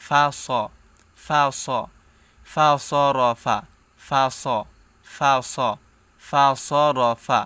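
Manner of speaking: স said as a heavy, emphatic Sad; correct Sad. Shown as a demonstration. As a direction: show the right way, ফা স with a thick স. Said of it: "বলতে হবে কি".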